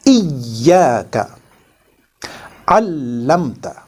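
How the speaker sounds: iyyaka and allamta with y and l held double; iyyaka, allamta, slow, doubled consonants stressed; doubled letters. Shown as a demonstration. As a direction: lean on the yy and ll.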